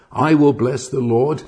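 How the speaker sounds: WILL lifted with an excited rise; riotous excitement. Shown as a demonstration. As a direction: proclaim it as if beside himself with joy. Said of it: "can only be said with riotous excitement".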